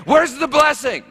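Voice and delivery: high loud exasperated question; impatient crowd. Retold or imitated. Everyone waiting for the promised blessing, shouting high.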